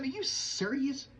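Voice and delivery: stunned. Retold or imitated. Stunned reply to praise.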